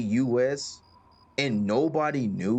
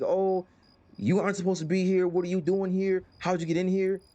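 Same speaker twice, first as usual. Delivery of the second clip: a hint of a fretful old lady, higher and quicker; lightly voiced old woman, fast and higher; startled old lady; 5 semitones higher than usual. Old lady breaking character to the player, mildly alarmed and higher. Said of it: "and she's like".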